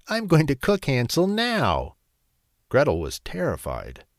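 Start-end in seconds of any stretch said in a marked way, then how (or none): 0.1-2.0 high, louder wicked witch threat; screeching witch. A narrator's reading. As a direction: shriek it with greed. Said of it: "she screeched".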